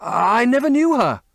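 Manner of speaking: high, loud frightened denial; stammered in fear. A narrator's reading. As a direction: stammer it out, terrified. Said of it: "he stammered".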